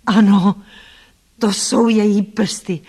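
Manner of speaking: loud cry of recognition. A narrator's reading. Blind man recognising her fingers by touch, crying out. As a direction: call it out loudly, drawing out the words. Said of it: "vykřikl".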